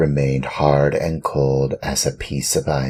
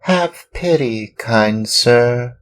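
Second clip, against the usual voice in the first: much higher, pleading Pinocchio; pleading puppet boy; 9 semitones higher, 5 dB louder than usual. Acted. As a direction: beg the master with rising pitch.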